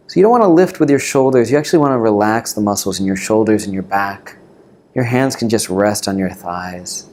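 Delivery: calm meditation teacher, long pauses between phrases; guided meditation. Real, not acted. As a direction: guide them gently into the breath, unhurried.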